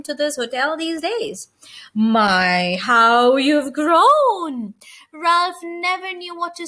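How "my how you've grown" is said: fussy aunt. A narrator's reading. Aunt Sissy fusses over Ralph.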